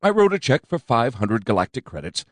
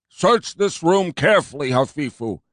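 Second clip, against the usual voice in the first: higher, louder commanding cop; ordering fat cop; 6 semitones higher, 3 dB louder than usual. A narrator's reading. Fat commander ordering his skinny partner, commanding. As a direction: bark the order at your partner. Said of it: "he ordered".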